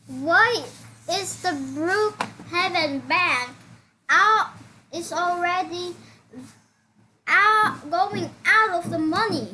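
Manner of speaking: loud, high-pitched outcry; alarmed disbelief. Real, not acted. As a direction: protest in shock, punching words out loudly. Alarmed at the emptied bank.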